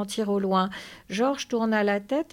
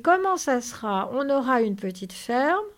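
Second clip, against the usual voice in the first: loud, higher, impatient prompt; eager prompting; 5 semitones higher, 5 dB louder than usual. Acted. Lénie prompts hesitating George, eager. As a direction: jump in eagerly.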